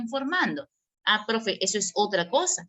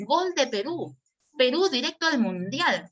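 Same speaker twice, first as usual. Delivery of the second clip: raised, lively goal call; excited exclamation; 3 semitones higher than usual. Shown as a demonstration. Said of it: "si yo hubiera colocado entre signo de exclamación".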